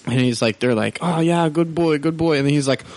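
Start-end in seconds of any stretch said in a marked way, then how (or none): 1.0-2.4 higher, lightly voiced movie father; imitated movie dad. Friend retelling a movie scene, imitated dad praising his son. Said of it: "he's like, talking to his son".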